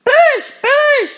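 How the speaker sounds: high, loud command; frantic calling out; urgent shouting. A narrator's reading. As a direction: urge them on at full voice. Urging friends during escape.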